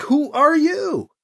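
slow, high "who are you", drawn out; puffed-up challenge. A narrator's reading. Priest turning the soldier's question back on him, puffed-up. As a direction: throw the question back, stretched and self-important. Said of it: "B C puffs himself up best he can".

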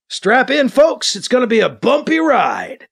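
calling out. A narrator's reading. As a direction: call it out to everyone aboard. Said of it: "Thomas calls out".

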